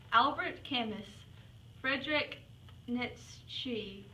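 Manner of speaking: slow, measured list of names; slow roll call. Pretend. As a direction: read each name out slowly, pausing between.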